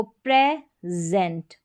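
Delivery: "प्रेजेंट" drawn out slowly with "प्रे" and a "ज"; slow model word. Shown as a demonstration. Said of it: "एस को ज पढ़ा".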